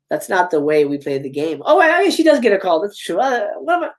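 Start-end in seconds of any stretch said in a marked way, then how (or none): 0.1-1.6 Ghostface. Acted. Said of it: "getting a call from Ghostface".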